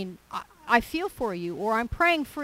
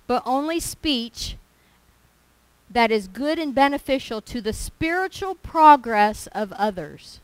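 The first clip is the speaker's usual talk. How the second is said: slow, weighty, punched words of scripture; scripture reading; 5 dB louder than usual. Acted. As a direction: lean hard on each warning word. Reads scripture with emphasis.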